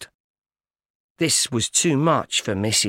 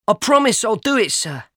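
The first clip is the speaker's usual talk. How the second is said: frightened promise; 7 semitones higher than usual. A narrator's reading. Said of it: "I was badly frightened".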